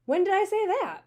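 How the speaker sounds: high, loud, sharp rebuke; Ma barks at Jax for doubting her; angry bark. A narrator's reading. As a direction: snap back at the boy. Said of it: "Ma barks angrily".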